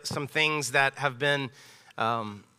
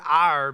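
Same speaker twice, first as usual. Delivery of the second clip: "our" pushed out louder; emphasis on "our"; 5 dB louder than usual. Real, not acted. Pastor repeats the key word for the church, emphatic "our". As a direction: hit "our" with extra volume. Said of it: "I wanna emphasize that word".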